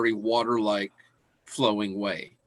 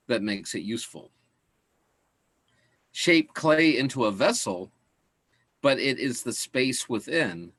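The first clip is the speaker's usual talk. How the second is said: calm recitation of Taoist verse; scripture reading. Acted. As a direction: read each line like an ancient proverb. Reads Tao Te Ching verse.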